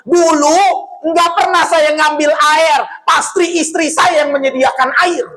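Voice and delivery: a hint of a tearful old man pleading; grieving widower. Preacher voicing a grieving widower to the congregation, mildly pleading. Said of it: "Apa jawab dia".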